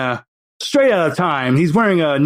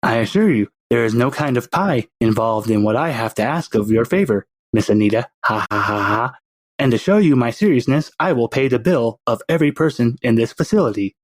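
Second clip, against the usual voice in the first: put-on baby villain; 4 semitones lower than usual. Baby with a pacifier courts Anita, in a lower sinister voice. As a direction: play the baby as a smug little schemer. Baby offers to pay everyone's bill.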